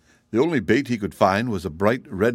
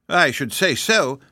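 higher, slow piglet voice; grunting piglet; 6 semitones higher, 3 dB louder, slower than usual. A narrator's reading. Piglet uneasy about the kitten, grunting. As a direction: grumble with a touch of a grunt. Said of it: "grunted another of the piglets".

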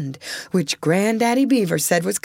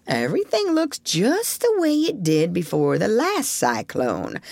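put-on grumbly old beaver. Granddaddy voiced in story.

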